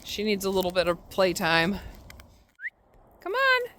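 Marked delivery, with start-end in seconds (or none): 3.2-3.7 high coaxing dog-talk voice. Real, not acted. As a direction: coax the dog with treats.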